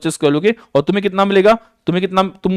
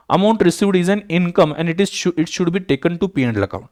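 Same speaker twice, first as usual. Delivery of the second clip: very slow, word by word, as if for notes; slow, measured dictation; much slower than usual. Shown as a demonstration. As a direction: read it out slowly for students to copy.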